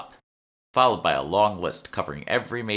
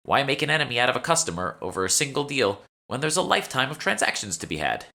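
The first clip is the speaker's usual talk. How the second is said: a touch higher, chatty shop clerk; lightly voiced shopkeeper; 8 semitones higher, 4 dB louder than usual. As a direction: play the eager young shopkeeper, slightly raised. The speaker on haggling.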